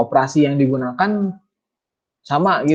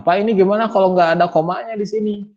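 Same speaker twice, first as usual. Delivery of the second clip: higher-pitched voice of a student asking; lightly acted student question, raised pitch; puzzled student; 10 semitones higher than usual. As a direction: ask the teacher, pitched up like a puzzled pupil.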